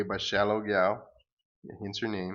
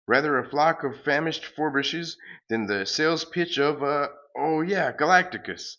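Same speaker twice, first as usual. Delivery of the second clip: raised, louder mock fanfare; mock-grand hero; 6 semitones higher, 5 dB louder than usual. The hero musing on Galacticus, mock fanfare voice. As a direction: announce the villain with mock awe.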